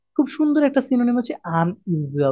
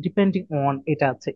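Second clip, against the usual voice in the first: slow soft term; 6 semitones lower, 3 dB quieter, much slower than usual. Shown as a demonstration. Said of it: "সেটা একটা সুন্দর synonym".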